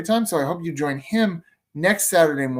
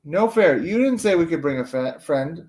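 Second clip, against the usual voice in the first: protesting; 4 semitones higher, 4 dB louder than usual. Acted. Kid brother protests.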